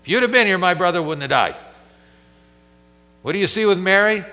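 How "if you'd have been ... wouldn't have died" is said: raised, louder reproach, finger in his face; accusing Martha. Acted. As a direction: throw the blame right at him. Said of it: "That's Martha".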